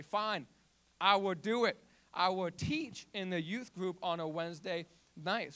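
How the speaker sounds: exasperated, mildly annoyed agreement; frustrated giving in. Retold or imitated. Teen giving in to staring peers, mildly exasperated. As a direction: give in just to end it. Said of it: "out of frustration, annoyance".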